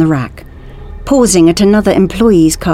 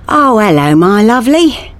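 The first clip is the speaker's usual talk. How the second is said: higher, sing-song hello; cooing greeting; 5 semitones higher, 4 dB louder than usual. A narrator's reading. Lucas greets someone round the corner, cooing higher. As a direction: greet a dear one with a rising lilt.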